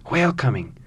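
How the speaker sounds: excited call. Acted. The second call, louder.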